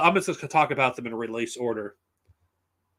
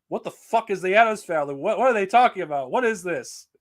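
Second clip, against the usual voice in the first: mild mock incredulity, pitched up; baffled disbelief; 4 semitones higher than usual. Viewer baffled by an odd movie reference, mildly incredulous. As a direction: act out a slightly raised, baffled reaction.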